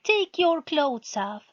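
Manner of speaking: irritated, snappy demand; sharp and fed up; annoyed. A narrator's reading. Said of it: "the woman sounded annoyed".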